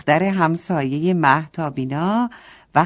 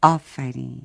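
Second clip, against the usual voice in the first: kindly praise; 5 semitones lower than usual. A narrator's reading. The bag kindly praises Mahtab, lower. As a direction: praise her gently, low. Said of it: "با مهربونی گفت".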